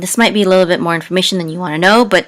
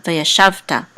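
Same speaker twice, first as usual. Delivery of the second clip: "veya shavta", accent on the middle "shav"; stress on SHAV; 5 dB quieter than usual. Shown as a demonstration. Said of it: "with the accent in this syllable".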